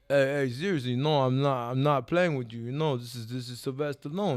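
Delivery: halting Rocky-style impression; earnest movie-boxer voice; Sylvester Stallone. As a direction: imitate the action star insisting on his name. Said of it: "Make sure you do his voice".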